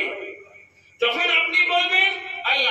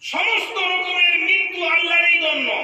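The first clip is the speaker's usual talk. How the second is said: preaching shout; 3 semitones higher than usual. Real, not acted. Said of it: "তখন পরিণাম কি দাঁড়াবে".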